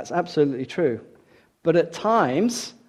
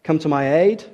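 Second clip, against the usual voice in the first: raised plea for help; Job; 3 semitones higher, 5 dB louder than usual. Acted. Job begging God for aid, crying out. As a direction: cry out, a little higher and louder. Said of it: "He cries".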